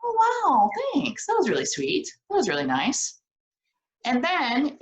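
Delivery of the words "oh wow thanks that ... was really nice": delighted thanks. Shown as a demonstration. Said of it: "it can be simple as".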